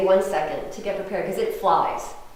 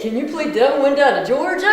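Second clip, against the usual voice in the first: higher mock accent of a tipsy heckler; put-on Georgia-request drawl accent; 4 semitones higher, 4 dB louder than usual. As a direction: do the beery guy's exaggerated accent. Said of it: "I'm giving that accent to it".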